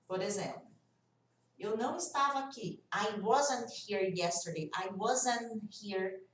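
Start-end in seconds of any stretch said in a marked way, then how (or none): 2.9-6.2 slow demonstration, "wasn't" ending on N before "here"; silent T in "wasn't". Shown as a demonstration. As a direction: stretch "wasn't", let the T vanish into "here". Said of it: "Esse T, ó, some". ("wasn't" devagar, sem som de T)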